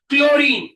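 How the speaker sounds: Chlorine, said loud and clear; careful pronunciation. Shown as a demonstration. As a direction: model how to read Chlorine, firmly. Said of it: "पहले तो पढ़ते आना चाहिए".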